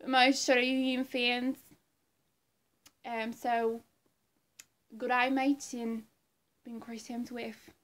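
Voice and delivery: put-on rough amateur Australian accent; Chris Hemsworth. Thor actor greeting his Australian fans, light Australian accent. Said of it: "my impression of Chris Hemsworth".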